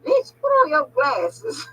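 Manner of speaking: slow, quoted through tears of laughter; quoting her friend while laughing till she cries; laughing quote. Retold or imitated. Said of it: "I was in that damn grocery store screaming, laughing".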